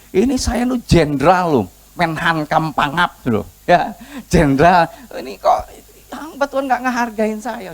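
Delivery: mock indignation of an offended general; indignant anger. Naaman the jenderal feels snubbed by the hamba Tuhan, indignant. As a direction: pull rank, stressing the title. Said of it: "Dia marah sekali".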